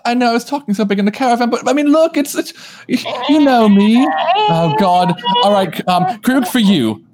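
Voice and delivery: a jittery wreck psyching up to knock; nervous character. Acted.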